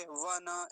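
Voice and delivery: वन said as "va-na"; वन in two syllables, ending in an open a; wrong full न. Shown as a demonstration. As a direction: add a vowel after the न in वन. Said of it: "ऐसा भी नहीं बोलेंगे".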